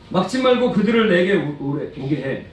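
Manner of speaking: forceful rebuke peaking high, then settling; angry Jesus. Acted. Jesus ordering disciples to let children come, acted anger. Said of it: "엄청 화를 내셨어요".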